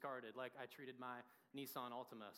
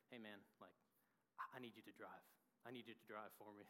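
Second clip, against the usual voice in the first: low, soft, unhurried country voice; a lightly voiced small-town Kansas guy asking a favor; imitating Lance begging his buddy to take the wheel, low and soft; slow country twang; 6 semitones lower, 10 dB quieter, faster than usual. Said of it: "he had a nice twang to his voice".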